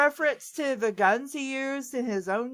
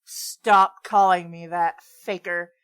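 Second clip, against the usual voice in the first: lower, irritated retort; hissed; 5 semitones lower than usual. Acted. Shadow brushing off Sonic, lower and mildly annoyed. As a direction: snap back at the nickname, pitched lower. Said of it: "The Black Hedgehog hissed".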